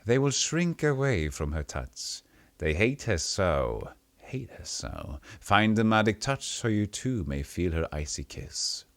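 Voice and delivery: slow lilting crone chant; a touch of sing-song old woman. Acted. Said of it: "song-like quality".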